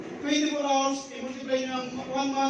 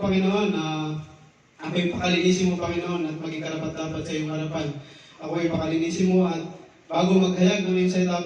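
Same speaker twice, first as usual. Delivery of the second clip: earnest prayer; 8 semitones lower than usual. Real, not acted. Preacher praying over the congregation before the sermon, fervent prayer. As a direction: pray it aloud, pleading for strength.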